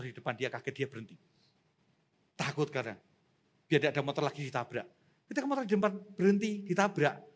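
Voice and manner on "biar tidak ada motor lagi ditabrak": usual speaking voice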